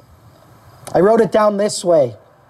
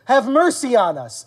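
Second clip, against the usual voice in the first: higher, slow acted plea; begging; 5 semitones higher, slower than usual. Preacher voicing demons begging Jesus for mercy, begging. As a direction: stretch out a mock plea for mercy. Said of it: "And they beg".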